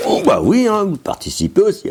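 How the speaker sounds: high, loud cooing at the dog. Real, not acted. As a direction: coo at the dog. Talking to the dogs.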